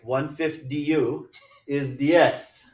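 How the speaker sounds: slow, playful Jamaican accent. Shown as a demonstration. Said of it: "speaking math in a Jamaican accent".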